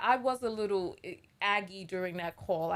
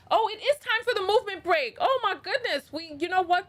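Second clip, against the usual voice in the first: sudden high excited exclamation; suddenly remembering, voice jumps up; surprised; 10 semitones higher, 8 dB louder than usual. Real, not acted. Suddenly remembers the movement break.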